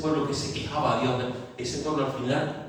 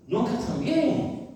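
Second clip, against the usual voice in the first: high, slow mocking echo of the whine; 12 semitones higher, slower than usual. Preacher repeats the complainers' lament in a slow high voice. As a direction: drag it out again, teasing.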